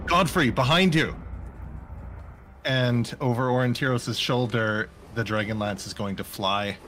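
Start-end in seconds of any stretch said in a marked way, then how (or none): 0.1-1.1 called warning. Acted. Player calls a warning in character.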